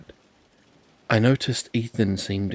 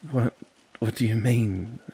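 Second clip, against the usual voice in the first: nervous; 3 semitones higher, 4 dB louder than usual. Acted. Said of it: "I laughed nervously".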